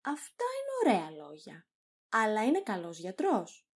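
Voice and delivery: mock admiration, then doubt; lightly sarcastic compliment; ironic. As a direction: praise it as if impressed, meaning the opposite. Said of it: "ειρωνικά".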